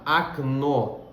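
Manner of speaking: "Окно" with the first O reduced to A; "Окно" pronounced "akNO"; unstressed O as A. Shown as a demonstration. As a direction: say "Окно" as "akno", stress on the end. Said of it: "tem o som de A".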